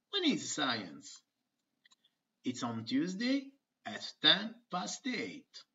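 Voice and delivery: lively textbook dialogue reading; acted dialogue. Teacher voicing two schoolkids for her students. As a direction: voice the kids brightly for the class. Reads aloud a children's dialogue.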